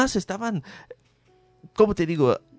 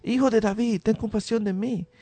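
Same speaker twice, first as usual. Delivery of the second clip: raised, pleading cry, mildly performed; blind man crying out; 6 semitones higher than usual. Retold or imitated. Preacher voices the blind man calling to Jesus, mild pleading cry. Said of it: "él gritó aún más fuerte".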